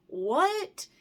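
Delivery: "what?" shot up high in disbelief; a sharp, high, stunned question; incredulous what. Real, not acted. Disbelief at careless courier reply.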